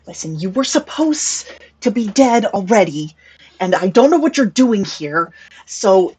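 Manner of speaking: a hint of a fed-up doctor; doctor loses patience with Mel; irritated doctor. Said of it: "She looks very, very irritated".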